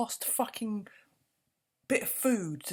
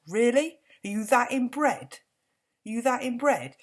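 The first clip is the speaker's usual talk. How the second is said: angry shout; 5 semitones higher, 6 dB louder than usual. Real, not acted. Angry rant at royals.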